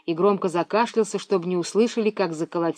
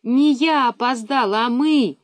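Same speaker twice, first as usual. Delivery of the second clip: slow, loud correcting; louder slow correction; correcting sharply; 5 semitones higher, 5 dB louder, slower than usual. A narrator's reading. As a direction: snap back a correction. Миронова correcting brother.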